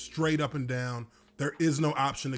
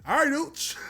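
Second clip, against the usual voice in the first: much higher, sly teasing greeting; teasing quarterback; 11 semitones higher than usual. Retold or imitated. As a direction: tease him knowingly with a grin. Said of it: "little grin like".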